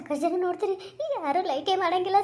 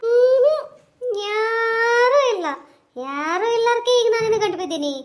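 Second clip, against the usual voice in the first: high, pleading village woman voice, close to tears; frightened woman; 4 semitones higher, 6 dB louder than usual. Acted. A scared woman begging the ghost to leave her, high tearful plea. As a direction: beg the ghost to go away, voice pitched up.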